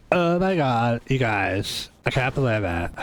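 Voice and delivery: put-on a light take on a Valley Girl gush. Shown as a demonstration. The streamer demos a Valley Girl voice for chat, lightly done. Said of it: "like a Valley Girl voice".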